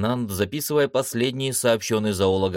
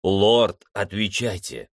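calling out; slower than usual. Acted. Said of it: "звал капитан".

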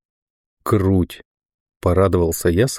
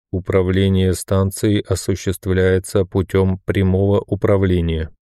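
metallic voice. Acted. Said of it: "сообщил мне металлический голос".

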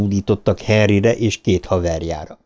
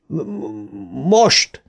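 stuttered shout; 5 semitones higher, much slower than usual. A narrator's reading. Bill signals all five to lift, stuttered shout. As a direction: struggle on the first sound and burst into the command. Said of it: "kiáltotta Bill".

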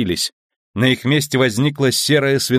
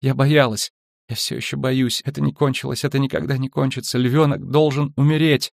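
higher-pitched, frightened recollection; fearful, agitated confession; 5 semitones higher than usual. A narrator's reading. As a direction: voice a girl reliving her fear. Girl relives terror in trance.

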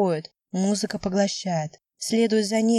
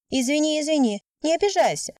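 put-on apologetic girl; 8 semitones higher than usual. A narrator's reading. Girl hastily apologises to skater.

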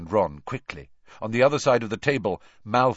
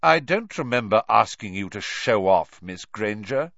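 coldly; 3 semitones higher, 5 dB louder than usual. Acted. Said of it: "said Snape coldly".

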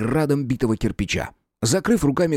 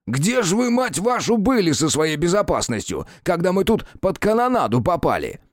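much higher, swearing rant; cursing tirade; 8 semitones higher than usual. A narrator's reading. Detective cursing the official, furious. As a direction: curse him out. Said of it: "забористое и многословное ругательство".

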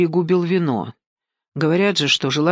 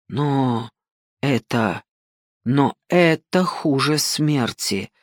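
moaning; 4 semitones lower, much slower than usual. A narrator's reading. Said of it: "простонал Жан".

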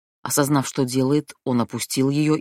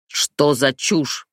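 thundering; 3 dB louder, much slower than usual. Acted. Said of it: "прогремел Александр".

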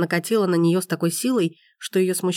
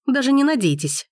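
higher, louder curt snap; sharp retort; 7 semitones higher, 3 dB louder than usual. A narrator's reading. Gabrielle snapping at Forster, sharp. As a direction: cut him off sharply. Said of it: "ответила она резко".

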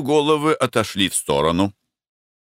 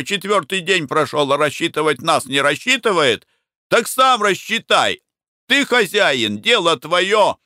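higher, heated scolding cries; angry workers; 7 semitones higher than usual. A narrator's reading. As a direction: berate the boss as a crowd. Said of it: "кричали и бранились". (бурлаки бранятся на хозяина, высоко и сердито)

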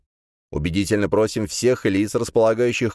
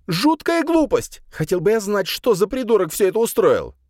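indignant outburst; 12 semitones higher than usual. A narrator's reading. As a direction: vent your outrage at whoever did this. Soliman's angry outburst continues.

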